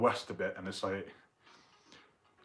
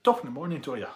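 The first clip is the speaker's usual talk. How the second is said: loud, higher stage-Irish greeting; mock Irish accent; 5 semitones higher, 7 dB louder, faster than usual. Streamer imitating an Irish workmate, loud stereotyped Irish accent. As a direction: belt out a cliché Irish accent. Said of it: "in a thick Irish accent".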